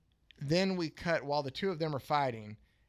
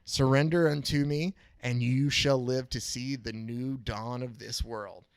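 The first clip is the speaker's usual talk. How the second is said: megalomaniac rant; 6 dB louder than usual. Retold or imitated. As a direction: demand he kneel, booming. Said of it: "the mystery figure says".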